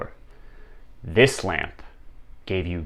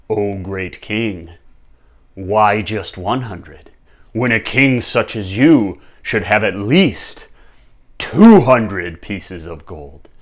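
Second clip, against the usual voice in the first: tempting lamp; slower than usual. Acted.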